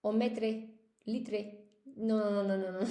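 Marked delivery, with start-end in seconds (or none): 0.0-1.4 "metre" and "litre" ending in -tray; wrong pronunciation. Shown as a demonstration. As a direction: say "metre", "litre" just as spelt, sounded -re. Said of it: "Please do not say".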